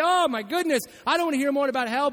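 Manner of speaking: mock exasperation. Preacher voicing a skeptic who is sick of hell talk, mock exasperated. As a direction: play the bored skeptic who is fed up. Mocking eye-rolling non-Christian.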